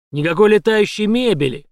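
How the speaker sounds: громко, выше, с нажимом; предупреждает с угрозой; резкое предупреждение. A narrator's reading. Угроза пистолетом. (жёсткое предупреждение)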